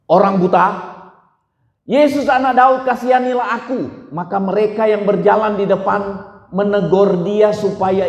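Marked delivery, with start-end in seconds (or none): 1.8-3.8 crying out. Retold or imitated. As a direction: call out to Jesus, begging. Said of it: "lalu ia berseru".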